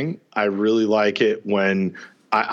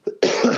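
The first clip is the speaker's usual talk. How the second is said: coughing fit. Real, not acted. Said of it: "sorry, I'm coughing so much".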